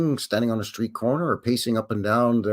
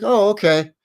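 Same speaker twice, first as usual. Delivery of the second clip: a higher, altered-voice oh okay; a lightly voiced lady, satisfied; mock relieved lady; 9 semitones higher, 6 dB louder than usual. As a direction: imitate the homeowner backing down. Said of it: "And then she was like".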